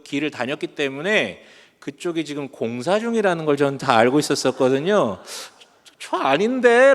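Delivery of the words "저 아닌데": high, loud questioning reaction; alarmed doubt. Retold or imitated. Runner watching cyclists head for the construction, alarmed doubt. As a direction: voice a sudden "that's wrong" thought.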